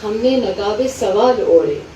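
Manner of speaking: measured Urdu verse recital, falling away at line ends; mushaira-style reading, each half-line set apart; poetry recitation. Acted. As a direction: recite the couplets with pauses between phrases. Recites a couplet to the audience.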